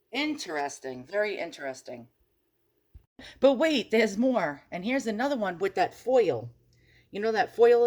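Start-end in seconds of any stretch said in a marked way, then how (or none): 3.4-4.6 loud, high TV salesman hook; mock infomercial announcer; infomercial pitch. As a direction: sell it like a late-night TV ad. Infomercial catchphrase to viewers.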